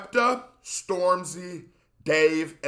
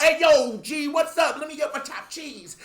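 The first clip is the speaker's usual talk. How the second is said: higher, louder imitation of a London roadman accent; mock London accent; 9 semitones higher, 4 dB louder than usual. Mocking how Americans hear a London accent, playful London accent. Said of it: "if it's any hint of different".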